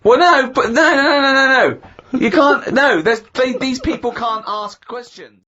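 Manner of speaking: exasperated high protest. Real, not acted.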